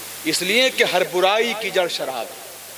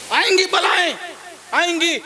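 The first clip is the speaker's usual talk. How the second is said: calling out; 10 semitones higher than usual. Real, not acted. Preacher warning the congregation of coming calamities, calling out. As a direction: proclaim it high over the crowd.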